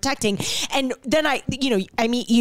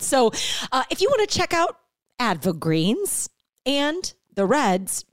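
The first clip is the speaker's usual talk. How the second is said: podcast ad read. Acted. Host pausing the show for the sponsor, upbeat ad read. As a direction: sell it casually, stretching key words.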